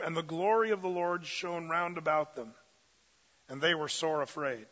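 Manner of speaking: measured, solemn reading of the Gospel; scripture reading. Acted. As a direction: read it like holy text from the pulpit. Pastor reads Luke aloud.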